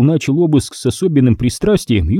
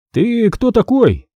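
interrogating; 10 semitones higher, slower than usual. A narrator's reading. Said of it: "начал допрос Стригун".

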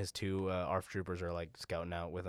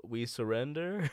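droid voice; 4 semitones higher, 3 dB louder, slower than usual. Retold or imitated. Droid surrendering voice.

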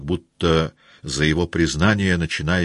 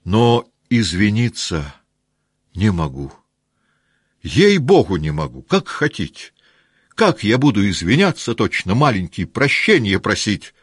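louder, higher protest; heated refusal; 5 semitones higher, 6 dB louder than usual. Acted. Rostov protesting to the officers, raised. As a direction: refuse with boyish pride.

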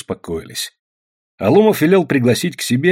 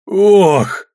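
startled oh; 9 semitones higher, 6 dB louder than usual. A narrator's reading. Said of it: "осел Никита".

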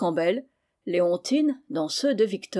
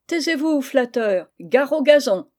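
laughing; 5 semitones higher, 6 dB louder than usual. A narrator's reading.

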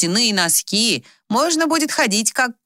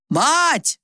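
shouted call; 10 semitones higher than usual. A narrator's reading. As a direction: call out across the house. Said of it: "снова крикнул Пётр Васильевич".

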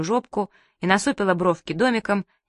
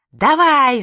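loud high yell of go; 7 semitones higher, 8 dB louder than usual. Acted. Manya yells at Karinka to swing the door, full shout. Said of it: "заорала Манька".

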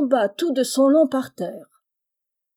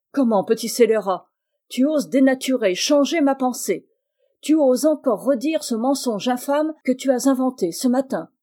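louder, raised furious rebuke; angry scolding; 3 semitones higher, 4 dB louder than usual. Acted. Madame Macmish scolding Charles for his letter, furious and loud. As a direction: tear into the little liar.

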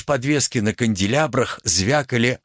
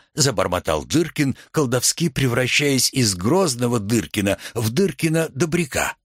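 ordinary delivery, nothing marked

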